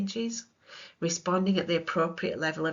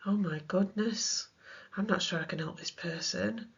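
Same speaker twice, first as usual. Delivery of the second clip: out of depth worry. Retold or imitated. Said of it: "You may feel out of your depth".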